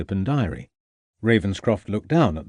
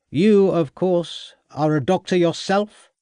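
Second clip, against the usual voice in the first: sharp, louder, higher snap; snapping; 8 semitones higher, 5 dB louder, slower than usual. A narrator's reading. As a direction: bite the question off. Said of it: "snapped Summersby".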